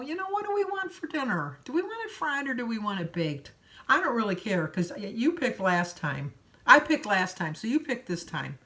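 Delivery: high, theatrical pretend small talk; mock casual chat. Pretending to ask her friend about dinner, hammed-up chatty voice. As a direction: put on a show of asking your friend. Playing along to fool the clerk.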